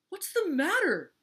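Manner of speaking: high, loud questioning call; alarmed call. A narrator's reading. Walrus runs over to the screamer, calling out.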